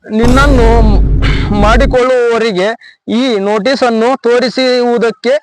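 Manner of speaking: halting, formal read-out with long pauses; reading letter aloud. Acted. Husband reads his wife's farewell notice to a woman, halting formal read-out. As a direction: read it out phrase by phrase, stiffly. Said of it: "ಓದಿ ಹೇಳ್ತೀನಿ ಕೇಳಮ್ಮ".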